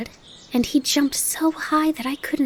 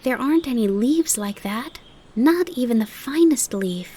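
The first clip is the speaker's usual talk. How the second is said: excited; 8 semitones higher than usual. Acted. Fawn gushes to his mother about the grasshopper, excited. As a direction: gush about the new friend.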